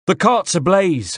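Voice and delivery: put-on faking a Corsican rebel to spread panic, in his accent. A narrator's reading. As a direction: raise the alarm as a Corsican rebel. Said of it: "in what I hoped was an approximation of the voice and accent of a Corsican rebel".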